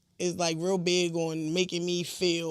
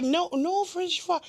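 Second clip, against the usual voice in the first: higher, slow waitress correcting; imitating the waitress slowly, pitched up; mock waitress; 8 semitones higher, slower than usual. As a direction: drag it out correcting the customer. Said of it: "She was like".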